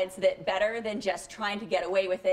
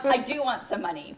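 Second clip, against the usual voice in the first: laughing; 4 semitones higher, 4 dB louder than usual. Acted. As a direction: still laughing through the words. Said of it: "Erica laughed".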